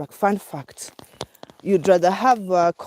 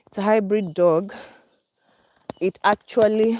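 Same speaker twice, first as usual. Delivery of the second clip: out of breath; 2 semitones higher than usual. Real, not acted. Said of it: "oh my God, I'm panting".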